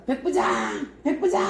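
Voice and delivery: high calling voice; summoning the centurion. Acted. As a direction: call him over, pitch up. Paul calls the centurion.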